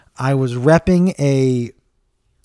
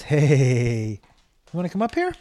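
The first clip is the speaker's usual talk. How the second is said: coaxing pet voice; 3 semitones higher than usual. Real, not acted. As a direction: coax the dog onto the couch. Inviting the dog up.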